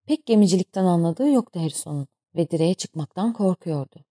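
plain reading voice

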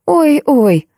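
high mock wail; wailing lament. A narrator's reading. Old host laments the deaf guests, mock wailing. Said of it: "причитал хозяин".

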